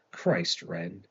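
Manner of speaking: breathy, exasperated sigh of her name; bitter sigh. A narrator's reading. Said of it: "he sighed bitterly".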